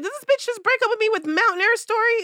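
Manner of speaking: loud, high, fast outraged disbelief; half-yell it in shocked outrage; retold shock at a breakup text, loud and high.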